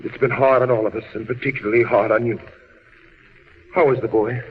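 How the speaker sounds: very low, soothing voice; gentle reassurance. Acted. Husband consoles his wife worn by waiting, gentle and low.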